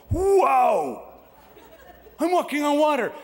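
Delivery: high, loud astonished cry; thrilled disbelief, almost yelling; amazed. Acted. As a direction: Peter marvelling as he walks on the sea. Peter amazed on the water.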